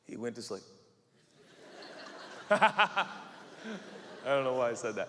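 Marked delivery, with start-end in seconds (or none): 1.8-2.5 soft laugh. Real, not acted. Speaker laughs at own remark.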